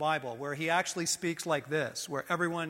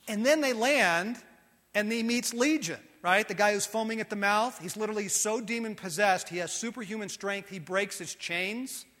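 normal talking voice

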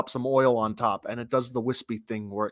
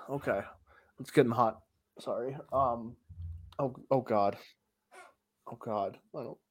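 ordinary delivery

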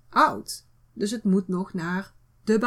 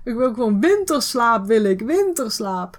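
louder, tired and fed up; fed-up whiny voice; 4 dB louder than usual. Pretend. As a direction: whine like you need a holiday. Acting out a fed-up person.

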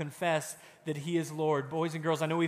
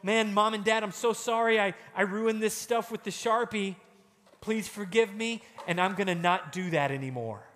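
put-on apologetic child; 4 semitones higher than usual. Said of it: "It's going".

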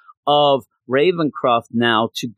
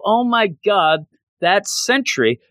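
mock shocked gasp; 7 semitones higher than usual. Discovering Sentry's legs.

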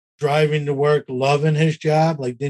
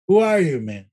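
mock incredulous; 3 semitones higher than usual. Potential guest to an unknown new host, mock incredulous. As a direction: play a puzzled brush-off, lightly acted. Imitates wary guest he invited.

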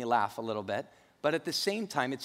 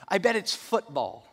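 bright high eager answer; Carl's high, grinning voice, eager to agree; 9 semitones higher, 3 dB louder than usual. Retold or imitated. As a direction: jump in eagerly with a big grin. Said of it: "with this big smile".

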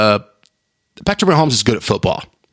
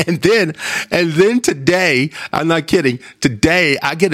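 laughing; 5 semitones higher than usual. Real, not acted. Still laughing from story.

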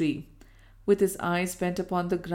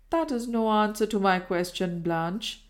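firmly. Acted. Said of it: "he said firmly".

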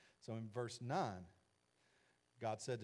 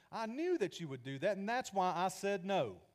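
louder and higher, slowing on the last words; exasperated complaint; 7 semitones higher, 7 dB louder than usual. Acted. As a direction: build to a frustrated outburst. Jonah complaining to God, rising.

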